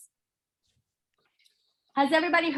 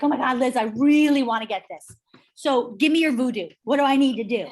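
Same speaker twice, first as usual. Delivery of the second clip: louder, eager begging; urgent retold plea; 5 dB louder than usual. Husband begging his wife for her voodoo, urgent and loud. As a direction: plead eagerly, with punch.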